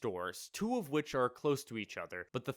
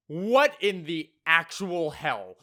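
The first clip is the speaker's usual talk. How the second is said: stunned disbelief; 4 semitones higher, 7 dB louder, slower than usual. Real, not acted. Reacting to the story.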